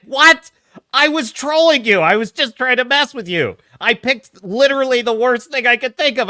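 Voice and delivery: high, loud disbelief; baffled he got it right; surprised. Retold or imitated. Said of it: "he's like".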